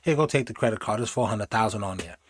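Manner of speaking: quiet, coaxing backpedal; hushed mock apology; soft wheedling. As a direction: sweet-talk her back, softly. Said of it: "she was like".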